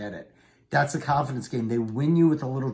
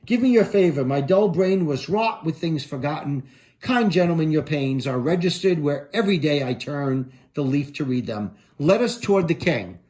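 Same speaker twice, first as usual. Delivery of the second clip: Shakespeare recital; 4 dB louder than usual. Acted. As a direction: read it courtly and full-voiced. Reads Macbeth's apology aloud.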